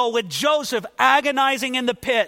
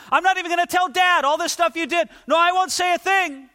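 rising, faster as he babbles promises; eager pleading Joseph. Retold or imitated. Joseph promising his brothers as they pull him up, eager. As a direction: gush apologies to the brothers, speeding up. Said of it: "but Joseph's saying".

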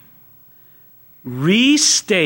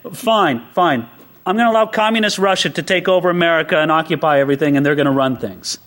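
lower, dry voice of God, fast middle; mock God's reply; 4 semitones lower than usual. God answering the praying believer, low and dry.

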